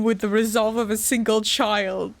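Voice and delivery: repeating the line in disbelief; stunned mock reading; incredulous quote. Real, not acted. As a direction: echo the phrase, not believing it. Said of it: "What do you mean".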